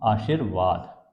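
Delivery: आशीर्वाद said slowly, syllable by syllable; slow clear pronunciation. Shown as a demonstration. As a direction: spell out आशीर्वाद by ear. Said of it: "कैसे लिखाएगा?".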